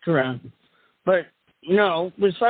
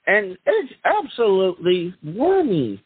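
fast cheesy TV ad pitch; hammy announcer voice. Acted. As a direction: rattle off the fine print like an infomercial. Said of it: "do the hammy announcer voice".

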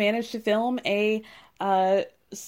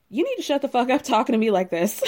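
laughing quote; 3 semitones higher, faster than usual. Retold or imitated. Retelling Candace's angry comeback.

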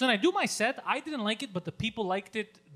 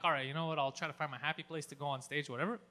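lower, softer resigned talk; calmed down; 6 semitones lower, 7 dB quieter than usual. Retold or imitated. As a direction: settle down grudgingly, voice dropped. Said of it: "So Mike calms me down".

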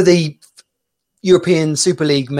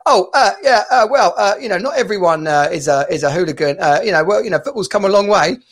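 Jim White; 3 semitones higher than usual. Retold or imitated. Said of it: "Jim White, he's like, going".

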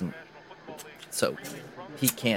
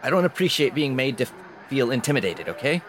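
indignant protest; 3 semitones higher, 4 dB louder than usual. Acted. Jim pushes back at intimidation.

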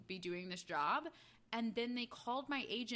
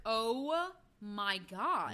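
shocked; 4 dB louder, much slower than usual. Real, not acted. Shocked reaction to story.

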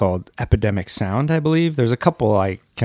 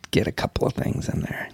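whisper; 6 dB quieter than usual. Real, not acted. Sneaking item into cart.

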